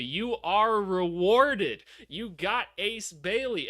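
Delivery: slow, emphatic declaration; slow proclamation. Real, not acted. Streamer proclaiming the rookie's reward, slow and emphatic.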